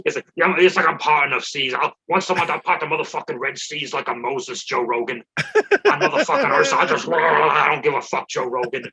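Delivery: lightly voiced brash comic rant; mock boast with a loud outburst; Joey Diaz. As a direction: rant as a comic impression, bursting loud midway. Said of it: "That's a good impression".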